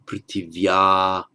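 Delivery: "Prithivya" ending on a long open aa; "Prithivya" with the final h dropped; no visarga. Shown as a demonstration. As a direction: draw out the last vowel of "Prithivya" with no breath after it. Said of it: "with no visarga".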